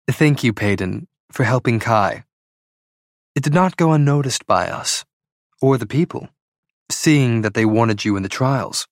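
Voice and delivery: lightly voiced mother giving formal thanks; a hint of a queen, measured and grateful; gracious queen mother.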